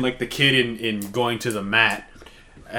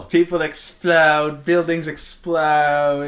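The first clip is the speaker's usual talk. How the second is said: slow, drawn-out character line; imitating character; much slower than usual. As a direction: spell out each explosion slowly. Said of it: "When she says".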